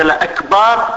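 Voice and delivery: الأكبر with its last vowel lengthened, "al-akbaar"; long alif in akbar. Shown as a demonstration. Teacher naming the mistaken word, الأكبر said as "al-akbaar". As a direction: stretch the "aa" before the ر in الأكبر.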